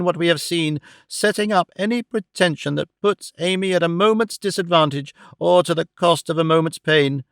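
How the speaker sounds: put-on old man thundering, understated; a touch of solemn indignation; indignant protest. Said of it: "with great scorn and indignation".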